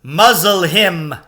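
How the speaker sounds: loud, slow, high order; commanding witch. A narrator's reading. Witch ordering Aslan muzzled, loud and slow. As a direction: spit out the command. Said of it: "said the witch".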